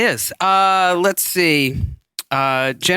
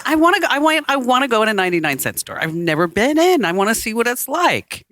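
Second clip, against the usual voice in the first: high, quick, eager begging; eager pleading; 5 semitones higher than usual. Retold or imitated. To her husband, begging to visit the store, high and eager. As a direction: plead like a kid wanting a treat. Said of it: "I said".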